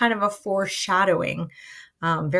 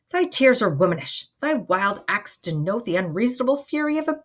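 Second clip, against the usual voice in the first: understated theatrical exasperation; frustrated scolding; 3 semitones higher, 3 dB louder than usual. Acted. Friar berates Romeo for his wild behaviour, frustrated. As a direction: rebuke him with rising, emphatic phrases. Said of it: "Friar Lawrence is very frustrated with Romeo's behavior".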